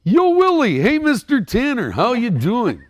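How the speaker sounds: high, loud elf voice. Shown as a demonstration. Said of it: "can you do it".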